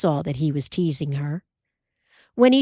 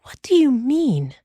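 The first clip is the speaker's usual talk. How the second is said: higher, alert question; Ma's voice, alert; 7 semitones higher, 3 dB louder than usual. A narrator's reading. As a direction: ask with sudden attention. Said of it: "more awake now".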